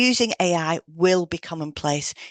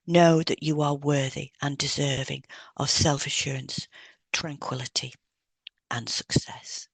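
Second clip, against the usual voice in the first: guided hypnosis read. Acted. Hypnotherapist reading a confidence script to a client, soothing. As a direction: lull the listener into calm confidence.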